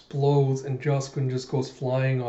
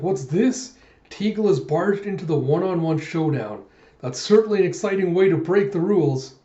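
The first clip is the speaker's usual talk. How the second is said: arena announcer; 4 semitones higher, 4 dB louder than usual. Retold or imitated. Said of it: "the announcer's like".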